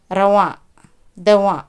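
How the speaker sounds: रवां and दवां said with the noon hummed through the nose, no full n; nasal noon demo. Shown as a demonstration. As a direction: let the final n of रवां, दवां ring nasally. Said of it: "इसे हम क्या पढ़ेंगे?". (रवां, दवां में नून नाक से, नून गुन्ना की तरह)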